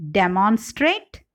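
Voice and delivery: first-syllable stress in demonstrate. Shown as a demonstration. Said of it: "Stress shift in derived words".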